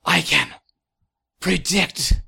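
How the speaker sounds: halting lecture, pitch swooping on key words; accented eccentric scientist. Acted. Scientist revealing weather theory, German-French accent.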